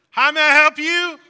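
loud, high barked greeting; commanding shout. Retold or imitated. Restaurant worker shouting the greeting as a command. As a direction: yell it like an order at the counter. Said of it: "it's almost like a command".

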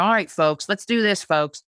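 upbeat, pumped-up call to the crowd; folksy rally call. Shown as a demonstration. Host rallying her blog readers, folksy and upbeat. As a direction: rev up the audience, casual and friendly. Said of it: "I'm one of these people that say".

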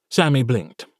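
usual speaking voice

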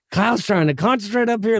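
mock stern dad voice; a hint of an annoyed dad; imitating the dad. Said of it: "He's like".

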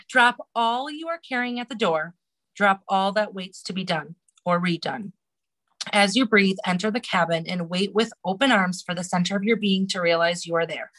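guided meditation reading. Acted. Reading a meditation to the podcast host. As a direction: guide the listener inward gently.

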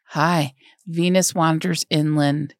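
mock introduction, drawn-out words; acted slow introduction. Introducing an artwork to get laid, slow and drawn out. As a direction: say it slowly, stretching the title out. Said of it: "be like".

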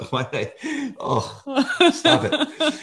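high, tearful half-laugh; choked up. Real, not acted. Parent overcome by stepdaughter's love, choked up and laughing. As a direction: scold yourself while welling up. Emotional again after stepdaughter's words.

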